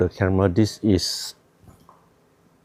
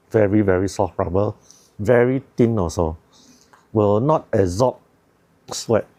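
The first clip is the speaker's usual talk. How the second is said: talking through a balaclava; muffled speech through fabric; muffled by mask. Real, not acted. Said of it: "So now I also a bit hard to talk".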